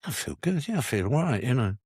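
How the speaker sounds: 1 chirpy self after release. Retold or imitated. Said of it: "How do you feel?".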